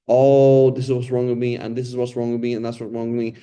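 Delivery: a loud "Oh" that opens a list of woes; milk the listener for sympathy with a mild whine; complaining whine. Retold or imitated. Teacher mimicking a complainer to the class, half-hearted whining. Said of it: "But as opposed to".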